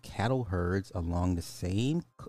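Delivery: emphatic article-reading voice; news read. A narrator's reading. Streamer reading a cow mystery article to viewers, newsreader style. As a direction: announce the headline with lifted pitch, then read on.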